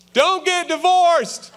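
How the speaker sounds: put-on slow, loud old man advice. Old husband finally giving marriage advice, slow and loud. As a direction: drag it out, loud and high. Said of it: "He's like".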